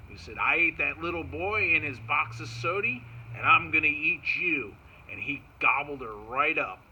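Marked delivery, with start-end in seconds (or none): 0.4-4.8 loud, boastful bear threat, lightly voiced; grumbly bear. Bear threatening the granddaughter, lightly voiced grumbly bear. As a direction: boast loudly as a bear about to eat someone.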